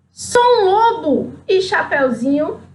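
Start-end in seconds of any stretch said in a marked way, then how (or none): 0.1-1.3 higher, slowed mock roar of the wolf; mock wolf yell. The wolf shouts at Chapeuzinho, hammed-up mock yell. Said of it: "E ele gritou".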